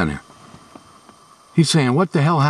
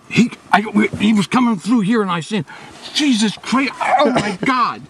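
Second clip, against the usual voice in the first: excited; 5 semitones higher than usual. Real, not acted. Just saw a huge buck.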